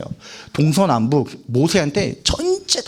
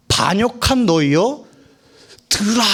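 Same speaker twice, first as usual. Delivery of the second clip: mock-stern summons, pitched up; angry Moses; 4 semitones higher than usual. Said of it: "성을 화를 냈다는 거예요".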